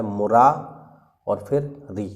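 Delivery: मुरा, pause, then री on its own; broken into parts. Shown as a demonstration. Teacher spelling out the name for students, मुरा and री separated. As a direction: split the word as मुरा ... री, dropping on री. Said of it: "सही वर्तनी क्या है".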